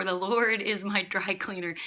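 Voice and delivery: "dry cleaner" stressed as the contrasting word. Shown as a demonstration. Preacher showing a misplaced emphasis, stress on "dry cleaner". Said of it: "our emphasis is on shepherd".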